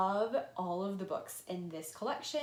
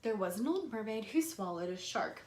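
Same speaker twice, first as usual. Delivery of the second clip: put-on reading to children. Shown as a demonstration. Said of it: "how I actually present the lesson is like this".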